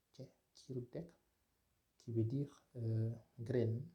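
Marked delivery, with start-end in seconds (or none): 0.1-1.1 slow repeat. Shown as a demonstration. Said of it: "On a le mot".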